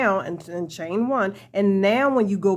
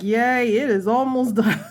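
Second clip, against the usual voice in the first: excited. Real, not acted. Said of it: "You could tell that I'm getting excited".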